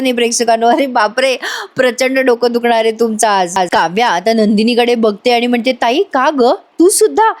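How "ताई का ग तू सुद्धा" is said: hurt disbelief. Acted. Kavya confronts sister, then faints.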